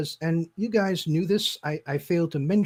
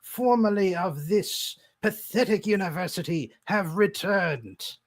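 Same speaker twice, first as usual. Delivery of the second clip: grandiose villain. Acted. Villain speech continues.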